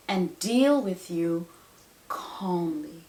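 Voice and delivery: slowing, settling into a calm tone. Acted. Parent promises a tantruming child calmness, calm and measured. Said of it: "It's called calmness".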